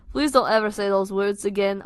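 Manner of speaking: loud Scouse morphing into Scottish; botched Liverpool accent drifting north to Scotland; Liverpool accent slipping Scottish. Acted. Nick pleading with friend, Scouse slipping Scottish. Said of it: "I'll just go Scottish".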